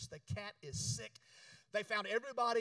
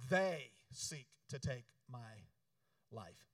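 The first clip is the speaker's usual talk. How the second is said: despairing Elijah; 8 semitones lower, slower than usual. Acted.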